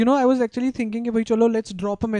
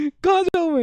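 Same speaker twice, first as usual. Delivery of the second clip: Munawar Faruqui; 7 semitones higher than usual. Retold or imitated. Retelling a comedian's joke to a co-host, exasperated. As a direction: retell it as a baffled, high-pitched outburst. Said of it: "मैं कहा".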